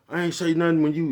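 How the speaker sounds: high, loud mock defensive retort; deflecting comeback. Caught choking an old man, deflects onto friend: high, loud mock defensive retort. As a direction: toss the blame back in a high, loud voice.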